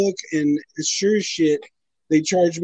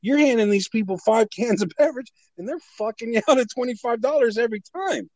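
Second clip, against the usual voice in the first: higher-pitched exasperated telling-off; acted scolding; 5 semitones higher than usual. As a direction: scold with mock outrage, pitch jumping. Acting out scolding himself.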